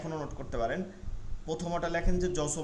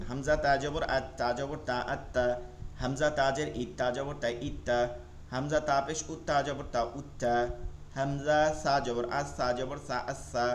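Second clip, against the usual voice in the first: measured, level-toned letter-by-letter drill; spelling-out recitation; 2 semitones lower than usual. Shown as a demonstration. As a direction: spell each syllable aloud, then join it. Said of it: "বানান করে করে পড়বেন".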